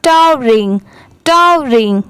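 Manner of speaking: टावरिंग made of "टावर" and "इंग" run together; टावरिंग as a teacher's joined-up model word; two parts joined. Shown as a demonstration. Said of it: "दोनों मिला देंगे तो".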